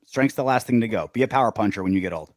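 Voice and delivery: lightly voiced low, quiet trainer; a hint of a fight coach's advice; old boxing coach. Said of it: "how he coached him".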